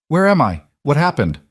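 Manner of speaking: a woman waking into sudden panic. A narrator's reading.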